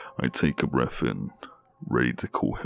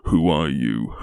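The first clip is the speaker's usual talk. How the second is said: scared question; 4 semitones higher, 6 dB louder than usual. Acted. Captive demands again, scared.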